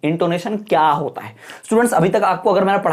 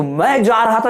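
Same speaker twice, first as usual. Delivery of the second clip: "मैं जा रहा था" with a mildly raised voice; louder half, intonation demo; 2 semitones higher, slower than usual. Shown as a demonstration. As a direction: lean firmly into "मैं जा रहा था". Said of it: "जोर से बोला". ("मैं जा रहा था" थोड़ा ज़ोर से)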